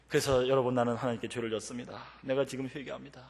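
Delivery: subdued tearful confession. Retold or imitated. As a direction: confess softly, humbled. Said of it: "막 눈물이 나갖고".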